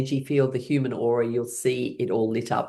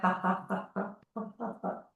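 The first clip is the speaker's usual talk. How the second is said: soft high ha-ha; 5 semitones higher, 10 dB quieter than usual. Shown as a demonstration. Laughter yoga chant.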